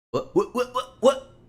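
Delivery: real bewilderment climbing up in pitch; baffled what. Real, not acted. Streamer baffled by a glitch, rapid high confused whats.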